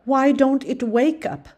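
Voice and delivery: high, loud insistent calls to wake it; pleading shouts rising on each wake; urgent child's cries. A narrator's reading. Child begging someone to wake the goat, loud and urgent.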